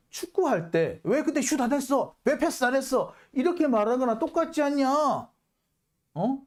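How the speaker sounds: high-pitched mock outburst of indignation; angry Yu Dong-gyu. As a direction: act out an irate witness firing back, pitch jumping up. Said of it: "버럭 화를 냅니다". (버럭 화내는 증인 흉내, 높은 목소리로)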